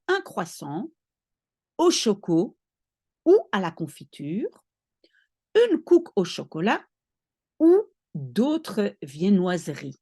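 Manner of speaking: careful French food names; French food list. Shown as a demonstration. Teacher listing Belgian breakfast foods in French. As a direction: list the pastries in clear French. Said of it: "I'm telling you".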